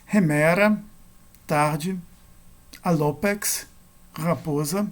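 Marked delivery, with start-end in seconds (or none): 0.0-0.8 "Remera" stressed on the middle syllable, ME; penultimate stress. Shown as a demonstration. Teacher giving Greek accent examples, "Remera" stressed on ME. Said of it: "penúltima sílaba". 2.8-3.6 "Alopex" stressed on the middle syllable, LO; penultimate stress. Shown as a demonstration. Teacher giving Greek accent examples, "Alopex" stressed on LO. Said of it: "penúltima sílaba".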